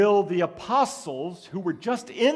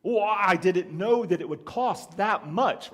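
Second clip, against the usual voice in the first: mock wide-eyed surprise; 2 semitones higher, 4 dB louder, slower than usual. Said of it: "get wide-eyed maybe and say".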